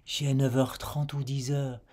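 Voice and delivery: "J'ai neuf heures" with the f sound carried into "heures"; linking demo. Shown as a demonstration. Teacher to learner, demonstrating the link. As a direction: link "neuf heures" into one flowing chunk. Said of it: "tu entendras cet enchaînement".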